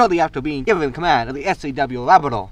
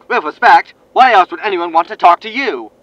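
eager reporter hail; 6 dB louder than usual. Acted. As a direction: greet him like a pushy TV reporter. Reporter jabs over comms.

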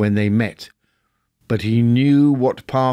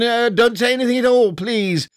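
quick retort; 10 semitones higher than usual. A narrator's reading. Scrooge cutting off the gentleman's thanks, fast and higher. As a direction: cut him off briskly. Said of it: "retorted Scrooge".

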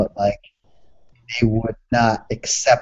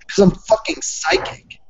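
unvoiced whisper; 10 semitones higher than usual. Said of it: "I was like".

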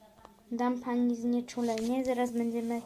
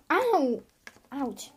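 cry of pain; 4 dB louder than usual. Pretend. Mother in pain, loud yelp. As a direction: yelp as if it hurts.

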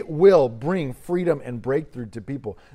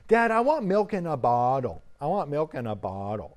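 lightly voiced toddler asking for milk; a hint of a small boy begging; toddler's plea, barely voiced; imitating his toddler. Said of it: "that's exactly how he says it".

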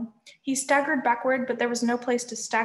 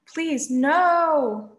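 high, loud, drawn-out plea; pleading moan; 5 semitones higher, 5 dB louder than usual. A narrator's reading. Beaten Cyclops begging under the sword, pitiful moan. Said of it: "the Cyclops moaned".

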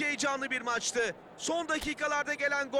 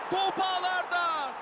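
excited goal call; 4 semitones higher than usual. Acted. Goal call in game commentary.

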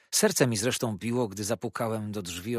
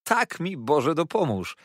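higher, louder, slow cheerful oath; merry exclamation; 7 semitones higher, 6 dB louder than usual. A narrator's reading. Treadles confirms his marriage to Copperfield, merry exclamation. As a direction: swear it with hearty glee. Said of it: "śmiał się wesoło".

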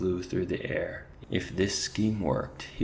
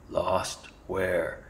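snarled. Acted. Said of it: "Clooney snarled".

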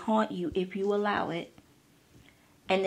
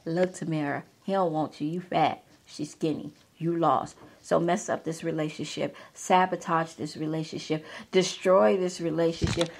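insecurity talking; 4 semitones lower than usual. Retold or imitated. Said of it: "some just whisper".

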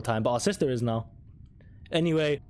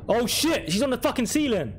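scared horror game streamer; 10 semitones higher than usual. Real, not acted. Ghost on the ceiling.

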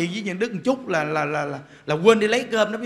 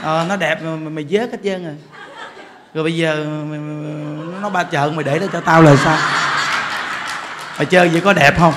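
scolding that builds from chuckling to loud; laughing mock scolding; 5 semitones lower, 4 dB louder than usual. Monk laughs, then loudly scolds the husband who left his wife.

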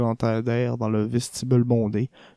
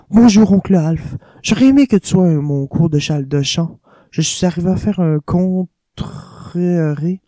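lightly voiced chatty young woman, higher and louder; lively niece and uncle; 3 semitones higher, 4 dB louder than usual. Niece chattering to her uncle at the hotel, lightly voiced. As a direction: gush about her singing lesson. Voices Geli and Hitler dialogue.

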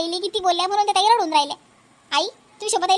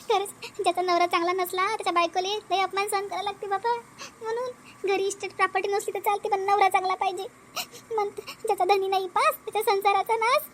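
soft, hurt reflection; subdued, aggrieved musing; sorrowful lament; 5 dB quieter than usual. Acted. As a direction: lament your lot quietly. Wronged wife laments her lot.

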